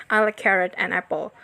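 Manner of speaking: "and" slipped in unstressed between carrot and apple; tucked-in conjunction. Shown as a demonstration. Teacher showing unheard conjunction, "and" barely voiced.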